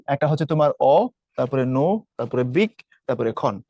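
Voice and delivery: each of অ, নু, বিক, খন set apart; syllable by syllable. Shown as a demonstration. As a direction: list অ, নু, বিক, খন as separate syllables. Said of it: "অনুবীক্ষণ শব্দটিতে অক্ষর কয়টি আছে".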